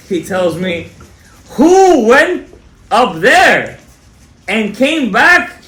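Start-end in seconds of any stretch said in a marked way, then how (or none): 1.6-5.6 high, booming mock challenge in separate bursts; loud challenge. Shawarma owner challenging the rabbi, loud imitation. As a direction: imitate a dramatic question, slowing at the end.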